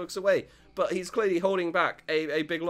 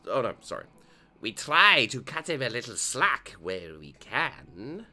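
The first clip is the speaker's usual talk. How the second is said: lower, calmer dad voice; lightly lowered dad voice; Joseph voice; 5 semitones lower than usual. Acted. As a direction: read it as a steady, kind father.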